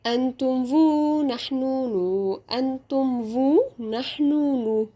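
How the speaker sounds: "فو" ends on a long oo; silent final S. Shown as a demonstration. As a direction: hold "نو" open with no s sound after it. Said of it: "ومش هنطق ال اس".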